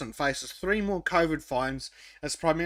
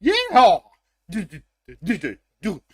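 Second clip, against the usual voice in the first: redneck hick; 2 semitones higher, 7 dB louder than usual. Acted. Joking about a redneck hick on a boat, hollered yeehaw. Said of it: "redneck hick on a boat".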